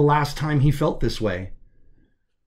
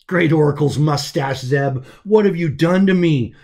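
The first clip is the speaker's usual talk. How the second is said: louder, rising panic; alarmed outcry; 3 semitones higher, 6 dB louder than usual. Acted. Prisoner crying out to Zeb, alarmed and louder. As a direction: cry out in alarm at what was done.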